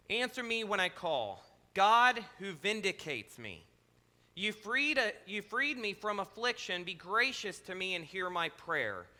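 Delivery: measured, solemn reading of a psalm; lightly intoned Bible reading; scripture reading. Acted. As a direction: read the psalm like a prayer. Reads psalm in second translation.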